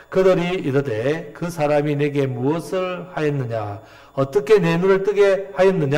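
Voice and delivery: slow, measured Bible reading; scripture reading. Acted. Preacher leading the congregation in a verse, solemn reading. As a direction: read the verse aloud deliberately, drawn out.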